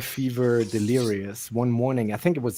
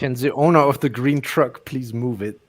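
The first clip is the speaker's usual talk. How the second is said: put-on German accent. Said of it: "He used his German accent".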